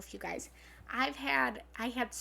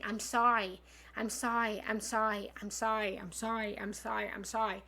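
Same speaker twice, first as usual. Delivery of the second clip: rattled-off string of apologies, fading softer; habitual over-apologising; 2 semitones lower, 3 dB quieter than usual. Acted. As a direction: repeat it like a reflex, trailing lower in volume. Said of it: "tendency of saying".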